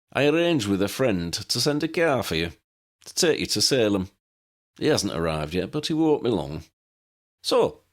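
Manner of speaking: lightly voiced eccentric old man, fond and wry; old pilot Pelicus. Old pilot showing guests his plane, lightly voiced old man.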